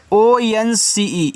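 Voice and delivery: slow letter-by-letter spelling; each letter drawn out. Shown as a demonstration. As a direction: spell it out slowly for the class. Teacher spells word by letters.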